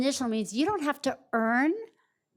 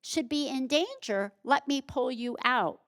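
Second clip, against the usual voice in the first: emphatic, higher and louder rescuer, slowing on "No human"; imagined rescuer; 4 semitones higher, 3 dB louder than usual. Retold or imitated. Speaker voicing a rescuer at the subway tracks, higher and emphatic. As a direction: insist like someone hauling a stranger off the tracks. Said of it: "You say".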